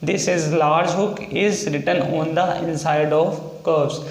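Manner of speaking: reads the rule out very slowly, word by word; slow reading aloud. Shown as a demonstration. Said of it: "तो लिखा हुआ है point में". (नियम धीरे-धीरे पढ़कर बोलना)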